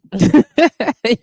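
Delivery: a loud, real burst of laughter; hearty laugh. Real, not acted. Streamer laughing loud at her fired-up chat. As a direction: laugh out loud, fully tickled.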